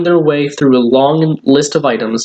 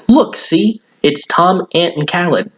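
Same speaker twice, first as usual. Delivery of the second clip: put-on excited boy; 5 semitones higher than usual. Billy excited at window.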